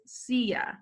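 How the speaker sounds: silla said SEE-ya, no L sound; Spanish silla. Shown as a demonstration. Teacher to kids, silla said as see-ya. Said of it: "Kinda like if you're saying".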